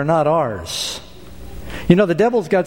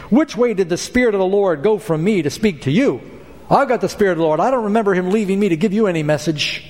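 sarcastic; 4 semitones higher than usual. Acted. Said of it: "he says sarcastically".

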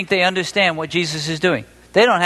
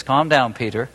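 calm reassurance; 3 semitones lower than usual. Acted. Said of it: "Jesus says".

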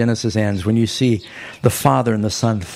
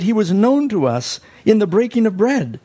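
higher, eager, tumbling out; excited disciples; 9 semitones higher than usual. Acted. Disciples eagerly telling the others, excited. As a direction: tell it like you just can't hold it in. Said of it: "they can't wait to share these news".

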